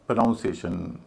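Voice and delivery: "प्रोनाउंसिएशन" with the full "नाउं" of pronounce; wrong pronunciation. Shown as a demonstration. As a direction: say "प्रोनाउंसिएशन" as pronounce plus -iation. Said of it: "उनको वैसा नहीं बोलते". ("प्रोनाउंसिएशन" में "नाउं" का पूरा, गलत उच्चारण)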